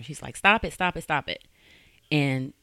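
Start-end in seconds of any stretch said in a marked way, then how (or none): 0.4-1.4 mild mock scream, high at first and dropping; understated imitation of a panicked plea; retold screaming. Victim screaming as the operator answers, half-voiced. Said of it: "screaming when she, they answer".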